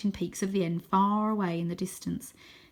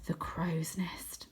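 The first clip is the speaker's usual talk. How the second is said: slow, soft unvoiced whisper; awed whisper at the sight of the castle; 8 dB quieter, much slower than usual. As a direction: breathe it out in awe. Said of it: "I whisper".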